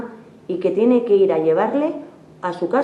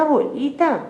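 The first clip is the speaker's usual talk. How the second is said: abuelita called again much higher; higher girlish call; 8 semitones higher than usual. A narrator's reading. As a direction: lift abuelita up high like a little girl. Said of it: "Caperucita dice". (abuelita, más agudo, voz de niña)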